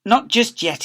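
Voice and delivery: tender suitor; lightly voiced lover; Mister Lovey reply. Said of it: "he replied".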